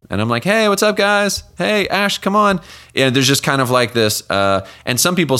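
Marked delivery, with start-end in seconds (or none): 0.4-2.6 high, bright hello calling across the lot; cheery call-out. Retold or imitated. Dad calling daughter at pickup.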